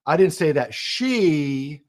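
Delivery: slow, weight on she; stress on she. Shown as a demonstration. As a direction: lean into she. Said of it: "emphasize a different word".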